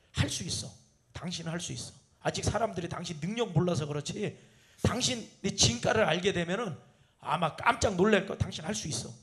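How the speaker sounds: wife softly encouraging a husband worn out from work; soft encouragement. Retold or imitated. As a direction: gently build your spouse back up. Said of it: "이렇게 말해주면 힘이 나요".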